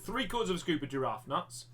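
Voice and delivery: lightly put-on northern English voice; northern English accent. Teacher reading the giraffe feed list, northern English accent. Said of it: "a northern voice".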